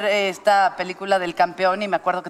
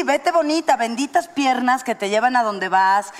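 self-blessing; slower than usual. Shown as a demonstration. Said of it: "y neta, sí".

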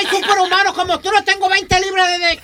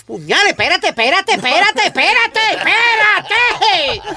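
pained pleading; 2 semitones higher, 3 dB louder, slower than usual. Real, not acted. Pain from electrodes machine.

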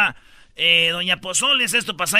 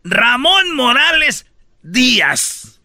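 news announcer; 3 dB louder than usual. Acted. Host announces news item.

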